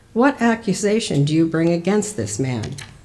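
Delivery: ordinary delivery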